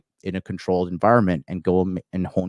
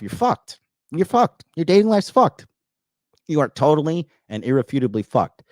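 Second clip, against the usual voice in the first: emphatic warning; 5 semitones higher, 3 dB louder than usual. Real, not acted. Hammering the point home to viewers.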